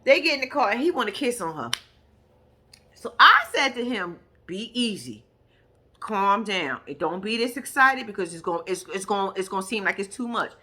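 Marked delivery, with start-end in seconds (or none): 4.4-10.5 low, soft retold urging; hushed calming advice. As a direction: quietly talk an excited friend down. Friend coaching an over-excited man down.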